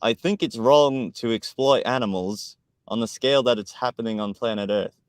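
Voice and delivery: lightly imitated comment-reading voice; a hint of someone else's voice; D N W impression. Host reading a chat comment, light impression. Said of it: "read the comments in his voice too".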